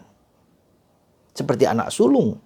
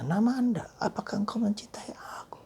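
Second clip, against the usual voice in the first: higher, soft whisper; whispered question; 8 semitones higher, 7 dB quieter than usual. Acted. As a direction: ask each listener quietly. Question put to each listener.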